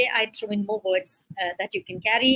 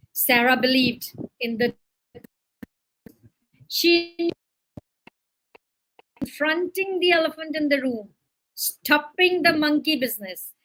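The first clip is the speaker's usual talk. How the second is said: emphatic read-aloud narration with pauses; deliberate teacher's story reading; 4 semitones higher than usual. A narrator's reading. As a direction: read the story out to a class, stressing each phrase. Reads an example story aloud.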